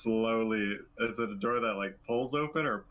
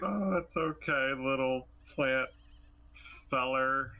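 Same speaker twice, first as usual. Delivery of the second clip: acted baby-talk comforting; gentle coaxing; 3 semitones higher than usual. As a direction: reassure a shy little critter. Player coaxing frightened plant creature.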